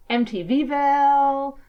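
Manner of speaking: botched Amityville said as M T Vville; garbled town name. Real, not acted. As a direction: stretch M T Vville out long and loud. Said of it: "So I've called it".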